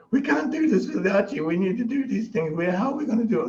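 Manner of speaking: high-pitched imitated fretting; mock pleading. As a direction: plead helplessly, hammed up. Retells the women pleading for help.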